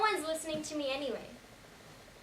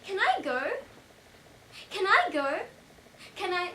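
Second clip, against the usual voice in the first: raised, louder repeated plea; urgent pleading; 6 semitones higher, 7 dB louder than usual. Acted. Witness begging to leave after telling all, urgent plea. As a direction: push to be let go, pitched up.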